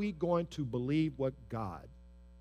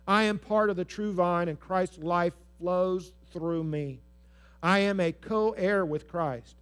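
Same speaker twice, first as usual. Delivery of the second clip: a strong call-and-response recitation; proclaiming affirmations; 4 dB louder than usual. Shown as a demonstration. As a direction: lead the church in reading aloud. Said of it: "just say that".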